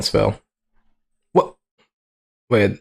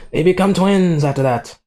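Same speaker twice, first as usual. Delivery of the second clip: raised pitch, stretched on "become"; 6 semitones higher than usual. Real, not acted. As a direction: lift "become" high and let it fall. Repeats plot point, first take.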